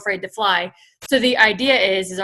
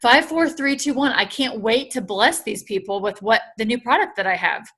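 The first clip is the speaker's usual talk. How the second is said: upbeat countdown. Shown as a demonstration. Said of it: "not fearful, but, like".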